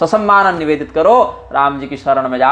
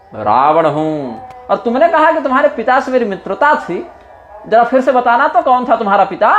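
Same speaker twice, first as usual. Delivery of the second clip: higher, taunting demon king scolding a monkey; haughty Ravana; 4 semitones higher than usual. Acted. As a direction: sneer down at a young monkey envoy. (Ravan Angad को ताना मारता है, ऊँची तिरस्कार भरी आवाज़ में)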